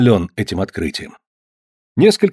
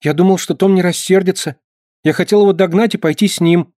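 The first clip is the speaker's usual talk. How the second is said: put-on higher, boyish pleading; a small boy making excuses; justifying boy; 7 semitones higher than usual. A narrator's reading. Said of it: "оправдывался мальчуган". (мальчик оправдывается, голос выше)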